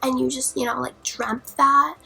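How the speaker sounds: doubting dad. Retold or imitated. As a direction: imitate a skeptical parent, drawn out. Acts out skeptical dad on phone.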